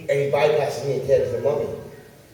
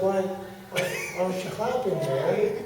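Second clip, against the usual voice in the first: mock pleading; 2 semitones higher, 4 dB quieter, slower than usual. Pleading with unresponsive spectator.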